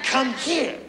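high-pitched acted summons; irate wife. Wife summoning husband to the kitchen, irate. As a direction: order him over in a mock fit. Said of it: "some kind of damn conniption fit".

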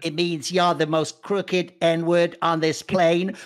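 slow, drawn-out roast line; a light imitation of Chappelle's slow roast; Dave Chappelle quote. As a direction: deliver it slowly like a comic roasting a heckler. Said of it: "goes like".

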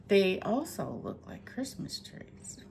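playful hushed whisper; whispered aside. Real, not acted. Thrift seller confiding a silly idea to viewers, whispered. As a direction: whisper it like a little secret joke. Joking aside about the finds.

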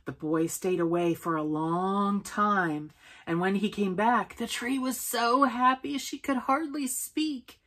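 storytelling rising in pitch toward happiness; story read-aloud. A narrator's reading. Telling a child the boy returned, rising storytelling. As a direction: read it out, lifting as the tree grows happy.

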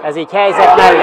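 fast, loud call of the miss; excited commentary. Acted. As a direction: blurt out the near miss. Chance missed live. (izgatott, gyors felkiáltás)

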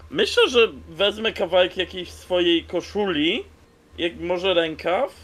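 usual speaking voice

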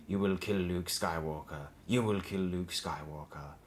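slow, deliberate voice in the head; drawn-out, insistent mental command; commanding inner voice. A narrator's reading. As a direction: intone it slowly as a haunting command. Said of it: "the voice continued unabated".

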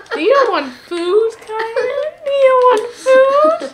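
high, slow whining machine voice; computerized voice. Retold or imitated. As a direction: drag it out like a crying robot. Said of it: "that's just a computerized voice".

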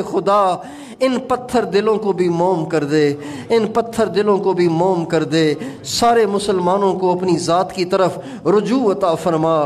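pleading prayer in insistent, repeated appeals; fervent supplication. Real, not acted. A preacher begs Allah to forgive the Muslim community, pleading fervently. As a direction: implore God line after line, earnestly.

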